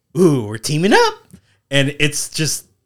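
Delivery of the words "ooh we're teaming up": very loud, high-pitched villain cry, belted out. Retelling a scene where the Joker gets to ride along: Joker voice. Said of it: "and he's like".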